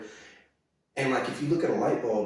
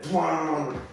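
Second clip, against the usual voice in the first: ordinary talk, nothing marked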